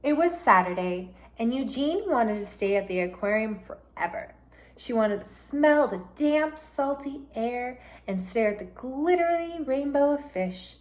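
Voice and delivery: storybook read-aloud, gentle and lively; reading to children. Acted. Teacher reads a picture book to her class, lively.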